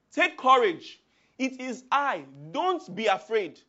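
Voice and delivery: loud, reassuring call over the storm. Acted. Jesus calls to the terrified disciples, loud and reassuring. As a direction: call to frightened men in the boat.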